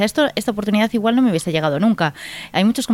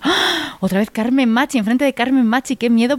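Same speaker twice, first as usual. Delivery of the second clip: a sudden high gasp, then a mock-panicked rush; 6 semitones higher than usual. Actress recalls fearing to act opposite Carmen Machi, mock panic. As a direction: playfully retell your own panic at facing her. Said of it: "Pero por otro, otro lado decía".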